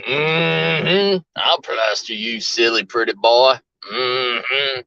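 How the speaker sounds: low, menacing backwoods drawl; creepy woods stranger. Retold or imitated. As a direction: leer it like a creepy hillbilly. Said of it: "somebody coming out of the woods saying".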